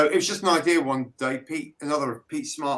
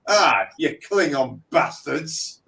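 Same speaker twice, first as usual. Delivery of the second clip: mock Picard; 5 dB louder, slower than usual. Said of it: "Jean-Luc Picard ... and go".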